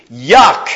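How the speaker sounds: playful disgusted yuck; mock yuck. Shown as a demonstration. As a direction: spit out a little yuck of disgust. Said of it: "read it with a little bit of emphasis".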